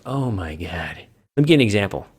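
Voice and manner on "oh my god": imitated jaded fan. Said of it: "guys who are like".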